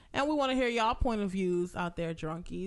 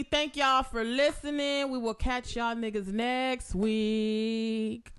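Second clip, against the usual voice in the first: slow sign-off; much slower than usual. Real, not acted.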